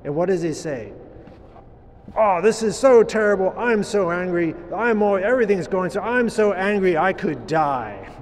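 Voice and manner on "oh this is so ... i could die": mock tantrum, a touch louder; temper tantrum. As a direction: whine like a sulking toddler. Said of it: "this temper tantrum that he's".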